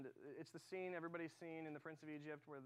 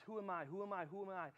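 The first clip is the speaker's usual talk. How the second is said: quick, repeated self-questioning as Moses; doubting Moses; 3 semitones higher than usual. Retold or imitated. Moses questions his calling, doubting himself over and over. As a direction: imitate insistent self-doubt, evenly repeated. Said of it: "Moses says".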